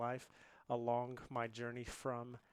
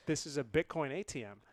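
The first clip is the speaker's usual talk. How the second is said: laughing quote; 2 semitones higher, 8 dB louder than usual. Retold or imitated. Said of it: "I'm not gonna try a German accent".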